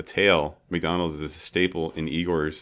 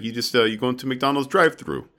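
high-pitched retold explanation; put-on higher voice for a quoted tip; imitated Igor; 7 semitones higher, 4 dB louder than usual. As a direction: mimic an expert explaining a simple trick, pitched up. Voicing Igor's answer to interviewer.

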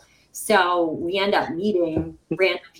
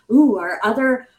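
eager; 3 semitones higher, 5 dB louder than usual. Retold or imitated. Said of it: "I'm like".

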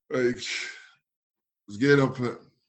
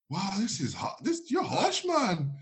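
high-pitched stumbling protest; mock outraged disbelief; 8 semitones higher, 3 dB quieter, slower than usual. New agent protesting a zero score, in high disbelief. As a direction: protest the unfairness, voice climbing high. Reacting to being marked zero.

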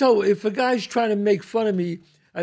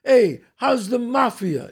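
mock Italian-American accent; much slower than usual. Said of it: "He goes".

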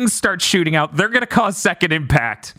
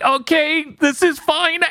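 mock cheerful high; 9 semitones higher, slower than usual. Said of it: "They're like".

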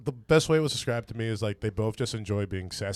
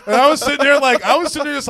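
excited; 12 dB louder than usual. Real, not acted. Excited retelling.

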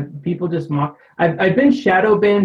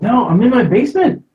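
laughing; 5 semitones higher, 4 dB louder than usual. Real, not acted. Explaining his echoing call.

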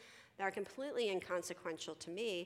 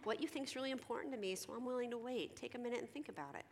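higher, gentle coaxing, softening toward the end; kind, higher-pitched patient voice; gentle counselor; 5 semitones higher, faster than usual. Acted. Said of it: "I would sit and say".

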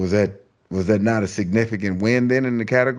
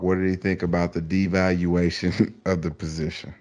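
stifled laugh. Real, not acted. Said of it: "I'm trying not to laugh".

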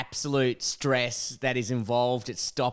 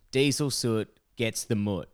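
quoting a sticker; 3 semitones lower than usual. Retold or imitated. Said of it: "ute that says".

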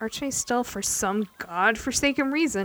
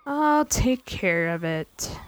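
lightly voiced rough sailor, slow and heavy; a steady, slow reassurance from a gruff man; slow gruff pirate; 3 dB louder, much slower than usual. Archmay answers Baron quietly.

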